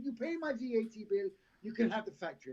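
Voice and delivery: a mock Jamaican bargain offer; crap Jamaican accent. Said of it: "She's my crap Jamaican accent".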